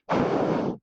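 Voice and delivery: long voiceless puff of air; imitated expressionless streamer sigh; bored streamer exhale. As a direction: blow out a blank, wordless sigh. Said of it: "they just kinda go".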